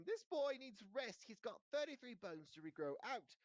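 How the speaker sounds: a fussing nurse clears the room, shouting. A narrator's reading. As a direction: bark the order at the visitors.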